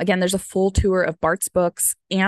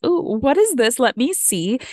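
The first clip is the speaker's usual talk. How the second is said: higher, lightly acted curious little boy; curious kid voice; 5 semitones higher than usual. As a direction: mimic a toddler grabbing something new, pitched up. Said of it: "And he was like".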